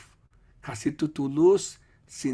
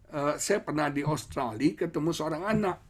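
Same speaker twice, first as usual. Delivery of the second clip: ordinary delivery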